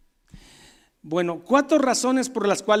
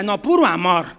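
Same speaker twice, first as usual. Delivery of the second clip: mock hippie; 4 dB louder than usual. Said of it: "un evangelio hippie de que todos se aman".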